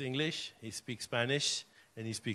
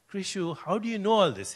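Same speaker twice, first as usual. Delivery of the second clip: higher and louder in astonished disbelief; amazed question; 7 semitones higher, 8 dB louder than usual. Retold or imitated. Grandfather asks his grandson, amazed, how he knows this. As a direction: ask it as if the boy stunned you.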